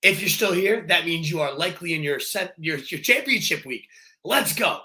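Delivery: slightly hoarse from a cold; losing his voice, push through it. Real, not acted. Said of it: "I'm losing my voice a little bit".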